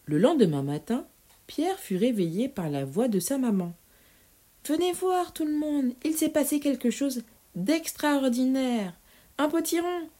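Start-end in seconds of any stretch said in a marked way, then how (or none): 4.6-8.9 excited mother calling. Acted. 9.4-10.1 excited mother. Acted. Mother announcing the pumpkin.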